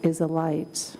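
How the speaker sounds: calm, slow meditation voice; guided meditation. Acted. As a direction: guide them gently into calm.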